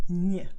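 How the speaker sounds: Ñ as a bare "nyuh"; "ny" sound. Shown as a demonstration. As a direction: sound out Ñ, not its letter name. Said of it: "and Ñ sound".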